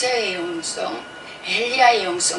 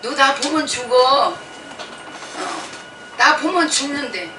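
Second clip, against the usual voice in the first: voice of God; 5 semitones higher, slower than usual. Retold or imitated. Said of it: "하나님 뭐라고 말씀하셔요".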